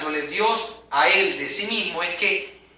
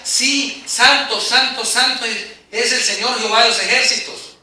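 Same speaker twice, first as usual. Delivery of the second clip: answering seraph's call; 3 semitones higher than usual. Retold or imitated. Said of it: "Y el otro respondía".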